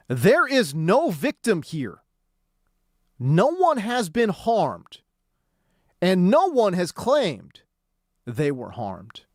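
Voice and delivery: slow, deliberate quote read-out; measured, emphatic quoting, phrase by phrase; emphatic statement reading. Retold or imitated. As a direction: read the statement out slowly and pointedly. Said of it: "And it was very emphatic".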